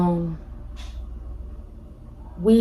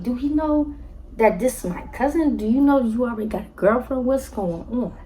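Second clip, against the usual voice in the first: raised, incredulous retold questions; shocked disbelief; 5 semitones higher than usual. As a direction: ask it like you can't believe what you're hearing. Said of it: "I was beyond shocked".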